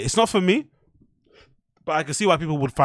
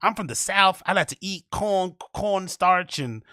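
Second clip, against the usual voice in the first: mock Southern Black American accent, pitched up; hacky stand-up caricature; 3 semitones higher than usual. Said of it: "there's a hacky black voice".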